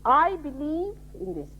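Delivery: mildly mimicking foolish talk, slowly; mock foolish believer. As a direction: lightly imitate a self-important believer, drawn out. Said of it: "they talk like this".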